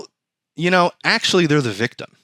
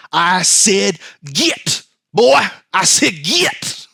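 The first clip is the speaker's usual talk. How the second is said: shooing voice; 6 semitones higher, much slower than usual. Retold or imitated. God shooing him again.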